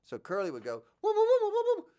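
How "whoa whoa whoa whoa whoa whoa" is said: much higher, loud whoa; Curly's high whoa. Shown as a demonstration. Imitating Curly's whoa much higher, as he does it. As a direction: squeal the whoas way up high. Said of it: "That's so high for me".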